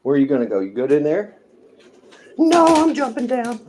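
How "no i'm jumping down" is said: high, loud pet character; talking pet voice. Pretend. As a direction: answer back as a pampered pet. Pet answers the owner's question.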